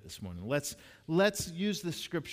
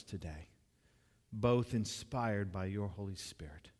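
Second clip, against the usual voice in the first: prayer. Real, not acted. Leads the congregation in prayer.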